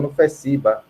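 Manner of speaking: ordinary delivery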